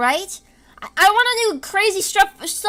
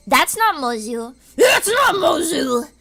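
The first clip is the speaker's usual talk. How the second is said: loud frustrated; 5 dB louder, slower than usual. Real, not acted. Frustrated insistence, near tears.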